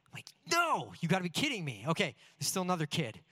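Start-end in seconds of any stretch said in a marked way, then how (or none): 0.5-1.9 dismayed disbelief. Retold or imitated. Dismayed at rival kid's great singing.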